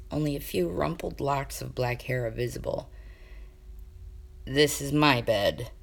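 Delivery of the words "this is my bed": dry statement. Acted. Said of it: "Kane informed his prince".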